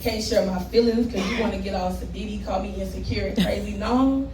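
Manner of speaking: rhythmic poem delivery with rising punchlines; spoken word performance. Acted. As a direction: perform it like slam poetry.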